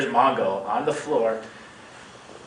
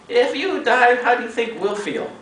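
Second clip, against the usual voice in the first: higher and louder, lightly voiced scolding woman; mock scolding lady; 11 semitones higher, 4 dB louder than usual. Teacher's wife scolding the sick foreigner, higher and louder. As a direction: chide him like a stern aunt.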